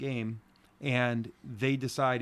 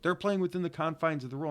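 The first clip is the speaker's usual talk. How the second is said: higher-pitched mock yell, no real volume; retold yell; 5 semitones higher, faster than usual. Coach quoting the umpire on the rules, mildly mock yelling. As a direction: imitate a yelling umpire, mostly through pitch. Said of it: "like, yelled it".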